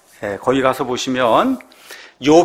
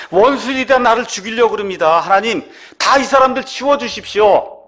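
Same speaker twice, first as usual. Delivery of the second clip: higher-pitched, mildly impassioned complaint to God; urgent plea; 6 semitones higher than usual. Acted. Psalmist begging God against enemies, urgent plea. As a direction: cry out for help, a little heated.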